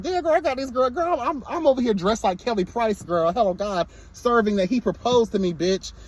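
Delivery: a hammed-up proud castmate bragging about her look; mock diva boast. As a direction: show off the outfit like a proud diva. Imitating Rim's proud boast.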